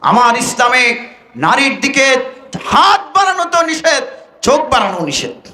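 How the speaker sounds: forceful preacher's delivery, pitch jumping up and falling away; impassioned preaching. Acted. Preacher correcting those who learned wrong, impassioned. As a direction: preach it as a rebuke.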